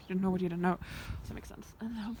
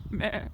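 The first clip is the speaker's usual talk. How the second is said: sheep bleat. Retold or imitated. Imitates the sheep, laughing after.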